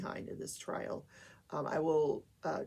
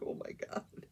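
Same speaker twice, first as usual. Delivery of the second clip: breathless oh my god; 7 dB quieter than usual. Real, not acted. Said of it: "I'm like".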